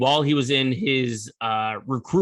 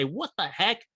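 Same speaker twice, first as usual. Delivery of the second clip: mock Southern accent, softer, a bit higher; fake Southern accent; 4 semitones higher, 5 dB quieter than usual. Kelly asking his mirror, in a fake Southern accent. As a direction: ham up a fake Southern accent, light and puzzled. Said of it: "Using that fake Southern accent".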